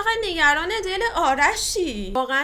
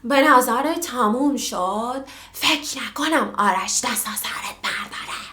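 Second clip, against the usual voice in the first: mock whisper; 3 semitones lower, slower than usual. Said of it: "هی میگه".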